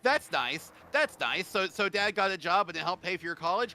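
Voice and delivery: loud, high-pitched sarcastic needling; real sibling resentment boiling up; indignant jealousy. Real, not acted. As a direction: fire off bitter congratulations. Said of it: "I'm a little bit fucking angry".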